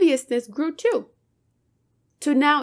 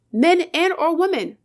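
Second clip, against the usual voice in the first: louder and higher, heated real rant; yelling; 5 semitones higher, 5 dB louder than usual. Real, not acted. Yelling a warning that it goes both ways. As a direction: shout it out in frustration. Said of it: "I'm sorry for yelling".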